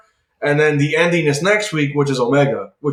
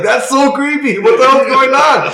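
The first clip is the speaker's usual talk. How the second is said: creeped-out Johnny; 9 semitones higher, 5 dB louder than usual. Retold or imitated. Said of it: "And Johnny's like".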